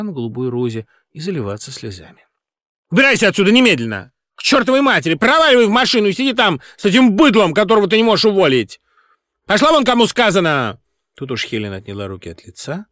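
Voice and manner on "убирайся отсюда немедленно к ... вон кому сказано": high, loud, fast yelling; angry yelling. A narrator's reading. Singer yelling at the director to get out, angry. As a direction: shout her out the door.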